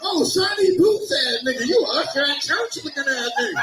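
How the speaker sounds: roasting shout. Real, not acted. Comic roasting the heckler.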